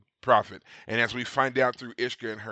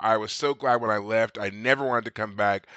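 impatient Quark; 4 dB louder than usual. Retold or imitated. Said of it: "Quark is like".

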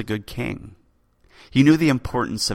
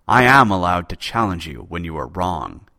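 tight voice; 6 dB louder than usual. Acted. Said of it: "his voice tight".

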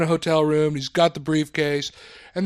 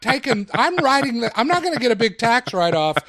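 mock outraged celebrity, pitched up; mock indignant rant. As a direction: complain as a vain star. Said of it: "he said it like".

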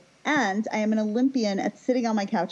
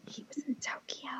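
hushed, voiceless secret whisper; real whisper; 4 semitones higher, 14 dB quieter than usual. Real, not acted. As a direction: whisper it like confidential gossip. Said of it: "I'm glad you whispered".

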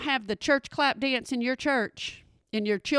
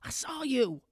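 inner thought; 6 dB quieter than usual. Retold or imitated. Teacher thinking while hugged by a kid, softly under her breath. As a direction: mutter it to yourself while hugging. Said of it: "and I think".

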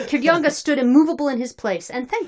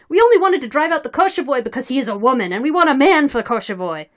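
loud, moderately raised crowd voice; crowd shout; 5 semitones higher, 8 dB louder than usual. A narrator's reading. Crowd explaining why they want a new leader, calling out. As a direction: call out the explanation to everyone. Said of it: "was shouted from the crowd".

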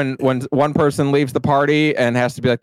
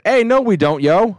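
put-on Midwest accent; 6 semitones higher than usual. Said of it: "Midwesterners always sound so weird".

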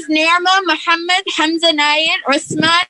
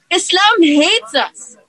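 quoting Trump; 4 semitones higher, much slower than usual. Retold or imitated. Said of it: "he insisted".

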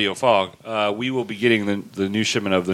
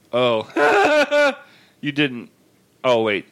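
Jacob impression; 3 semitones higher, much slower than usual. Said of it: "You said you do a good Jacob".

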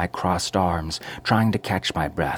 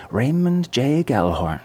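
high, sharp correction of the name; 6 semitones higher, 4 dB louder than usual. A narrator's reading. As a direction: snap the full name back. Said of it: "she said sharply".

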